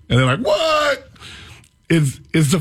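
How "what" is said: high mock disbelief; a stunned stranger's high "what"; shocked what. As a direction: play their jaw-drop on one word. Visitors shocked he's not black.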